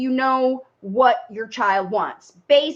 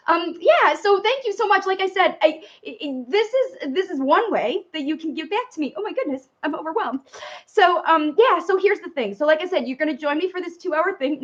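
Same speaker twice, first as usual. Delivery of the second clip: higher, halting thanks with restarts; really thrown, trying to get back on track; overwhelmed, flustered; 5 semitones higher than usual. Real, not acted. Host regaining her thread after a surprise donation, overwhelmed.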